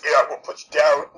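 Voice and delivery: gruff wrestling promo growl; lightly voiced tough wrestler; deep wrestler voice. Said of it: "a deep wrestler voice".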